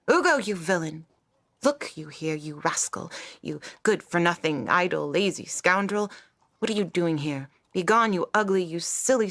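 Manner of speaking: hammed-up haughty rebuke; mock grand lady scolding. Maid pretending to be a lady, berating her servant in mock haughtiness. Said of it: "I'll talk thus".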